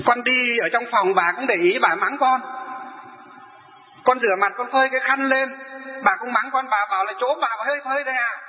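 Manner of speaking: retelling a grievance with mock outrage; aggrieved complaint. Elder complains about roommate.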